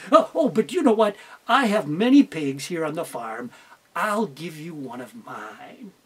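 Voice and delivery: a kindly teacher offering a pig; teacher character. Acted. Teacher to Tricky the fox, lightly voiced and low.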